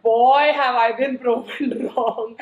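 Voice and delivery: laughing through the words. Real, not acted. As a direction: chuckle as you admit it. Laughing at own dating turnaround.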